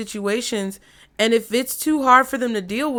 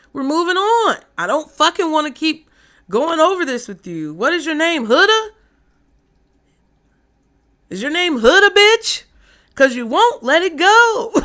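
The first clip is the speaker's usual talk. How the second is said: loud, high furious outburst; angry rant; 7 semitones higher, 6 dB louder than usual. Pretend. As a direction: yell it at someone who won't let go. Mock rant at a client.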